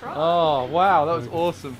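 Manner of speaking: loud cheering; excited. Real, not acted. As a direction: cheer the catch loudly. Fish released, cheering.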